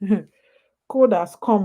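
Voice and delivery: slow, laughing through the words; amused, drawn-out repeat. Real, not acted. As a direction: chuckle it out slowly.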